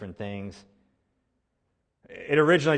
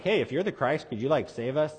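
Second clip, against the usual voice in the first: casual polite request; 2 semitones higher than usual. Shown as a demonstration. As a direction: ask it casually, as if it were no insult. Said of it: "He's not like".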